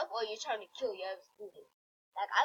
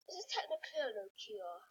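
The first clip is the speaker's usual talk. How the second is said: voiceless whisper of an aside; 4 semitones lower, 5 dB quieter than usual. Real, not acted. Mocking a phone-shaped item in a whisper. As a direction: whisper it like a secret joke. Sarcastic aside about the product.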